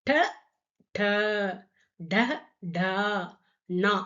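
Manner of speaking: ட ட ட ட then நா as the three-loop retroflex ண; Hindi ṭa-row recited. Shown as a demonstration. Teacher to students, reciting the retroflex row clearly. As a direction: space out ட ட ட ட நா, each one distinct. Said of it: "டா வரிசையில".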